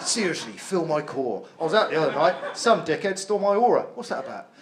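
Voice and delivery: London geezer with a feminine side; London man's man. Acted. Geezer sharing his feminine side, London accent. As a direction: play an earnest London bloke. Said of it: "a man with that accent".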